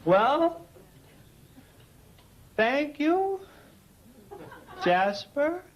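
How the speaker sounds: long drawn-out pauses between words; super slow sleepy sloth. Acted. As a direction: dawdle through it like a sloth. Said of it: "he makes a sloth look like Sebastian Coe".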